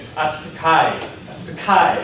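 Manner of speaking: imitating English speakers squashing the vowels of あつかい; あつかい with a stressed syllable and the other vowels reduced; mock learner version of あつかい; English-learner pronunciation. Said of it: "English people often ... they're gonna say".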